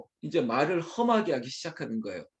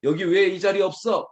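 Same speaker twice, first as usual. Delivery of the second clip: raised, louder snap at family; irritated, higher-pitched demand; snapping; 3 semitones higher, 4 dB louder than usual. Acted. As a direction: snap accusingly at whoever is missing. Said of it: "쏘아붙인다며 이거 참 난감하겠죠".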